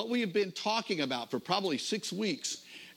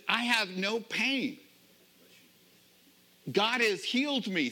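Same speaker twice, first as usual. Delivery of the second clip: joyful retold exclamation; 7 semitones higher than usual. Healed man's joyful quote.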